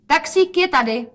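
high, loud excited call. A narrator's reading. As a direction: call out that the taxi has come. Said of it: "zvolala Rozetka". (radostné zvolání)

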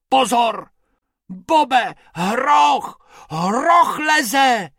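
high, loud alarmed shout; shouting rabbit. Acted. Bobek shouts to Bob that a hippo is coming. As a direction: yell a warning at a hippo. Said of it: "křičel Bobek".

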